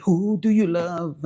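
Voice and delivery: slow, drawn-out rapper hook; a rapper's line. Retold or imitated. Rapper's question quoted to viewers, slow drawl. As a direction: stretch it like a rap refrain.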